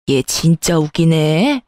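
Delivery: low, slow sneer at her daughter-in-law; scornful scoff. Acted. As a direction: drawl it out with contempt. (비웃듯 깔보는 말투)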